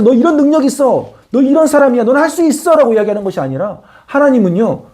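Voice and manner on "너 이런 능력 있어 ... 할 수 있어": higher, cooing pep talk; coddling. Pretend. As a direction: pat him on the head with your voice. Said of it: "우쭈쭈 해주면서". (높은 톤으로 우쭈쭈 달래듯이)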